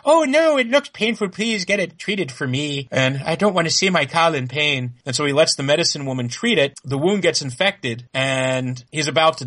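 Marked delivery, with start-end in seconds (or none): 0.1-4.9 put-on high girly plea fading back down. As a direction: play it girly and pleading, coming down. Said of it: "Daenerys is being all girly and like".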